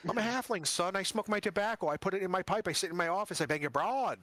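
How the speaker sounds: lightly voiced noir halfling detective; a hint of old-time gangster talk; 1940s noir detective. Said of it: "easy nineteen forties translated voice".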